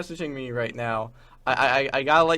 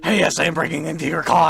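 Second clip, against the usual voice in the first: mock shout; 5 dB louder than usual. Quoting meme loudly.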